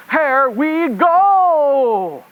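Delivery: a deliberately bad French accent; hammed-up French reporter accent, dragging it out. Roving rabbit reporter signing off in a hammed-up French accent. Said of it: "with a really bad French accent".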